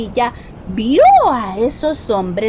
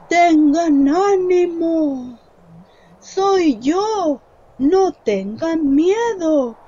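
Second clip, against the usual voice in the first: calm reassurance; 2 semitones higher, slower than usual. Acted. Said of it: "les dijo Jesús".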